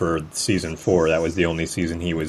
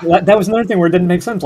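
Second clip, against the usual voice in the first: laughing; 12 semitones higher, 8 dB louder, much faster than usual. Real, not acted. Laughing while talking.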